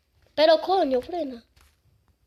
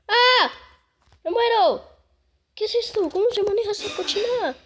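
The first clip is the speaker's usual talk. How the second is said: on a roller coaster; 7 semitones higher, 3 dB louder than usual. Pretend. Flying plane badly.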